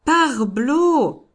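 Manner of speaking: loud, high French exclamation; exclaimed outburst. A narrator's reading. Outburst in courtroom exchange.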